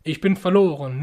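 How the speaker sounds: loud anguished cry of being lost; retold scream. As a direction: cry it out, a dying woman's scream. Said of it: "schrie sie".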